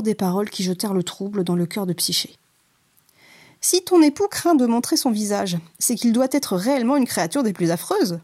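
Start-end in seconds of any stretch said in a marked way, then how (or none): 3.6-8.2 sisters' taunt. Acted. Jealous sisters sow doubt.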